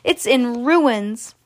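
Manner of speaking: slow, drawn-out lament; dismayed cry. Acted. Mister Bucket surveys the smashed house, dismayed cry. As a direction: drag out the bad news, mildly wailing. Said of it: "cried poor Mister Bucket".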